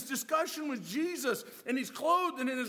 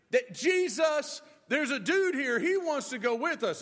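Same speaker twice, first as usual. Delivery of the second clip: louder, urgent shout to the boat; calling out; 3 semitones higher, 6 dB louder than usual. Retold or imitated. Disciples shouting to Jesus about the man on shore. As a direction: call across the water to stop the boat.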